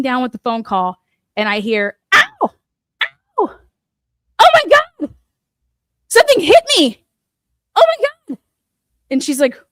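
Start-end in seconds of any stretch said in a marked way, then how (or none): 2.1-8.4 high, loud, pained yelps of shock; panicked cries. Retold or imitated. Husband on the phone to his wife, shrieking in pain and panic. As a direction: cry out like you've just been hit.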